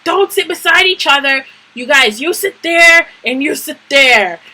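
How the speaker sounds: high, scolding imitation of authority; vice principal. Vice principal separating two fighters, high bossy voice. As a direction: mimic a school official ordering students apart. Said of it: "vice principal said we were supposed to sit".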